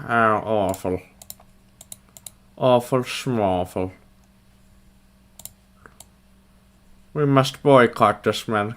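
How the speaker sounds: slow, hammed-up Russian accent; put-on Russian accent, drawn-out words; mock Russian accent. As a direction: play mock outrage in a fake Russian accent. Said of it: "like, a Russian accent".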